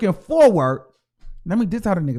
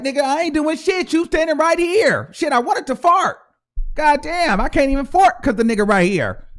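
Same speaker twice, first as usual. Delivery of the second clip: imitating Nicki; 6 semitones higher, 3 dB louder than usual. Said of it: "And she like".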